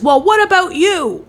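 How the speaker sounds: mock indignant comeback; defensive deflection. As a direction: throw it back at the partner. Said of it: "my response is".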